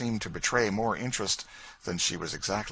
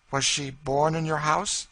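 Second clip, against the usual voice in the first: high, eager lady's voice; a curious lady probing gently; French lady voice; 9 semitones higher, 6 dB louder than usual. Acted. Lady asking George about Kentucky, high eager voice.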